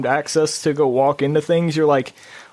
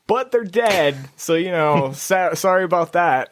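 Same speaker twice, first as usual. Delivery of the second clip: laughing mock apology; 5 semitones higher than usual. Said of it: "I was like".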